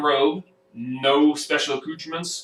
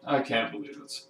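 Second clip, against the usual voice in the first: flustered apologetic mage; Perrin voice; 4 semitones higher, 5 dB louder than usual. Acted. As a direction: stammer apologies into a sending. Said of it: "Perrin immediately goes".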